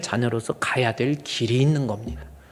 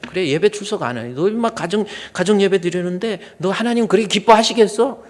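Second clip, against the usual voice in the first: put-on higher, rising reproach at a child; mock scolding father; 6 semitones higher, 5 dB louder than usual. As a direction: nag the kid like a stern father. Father scolding child about worship. (아이를 꾸짖는 아버지 흉내)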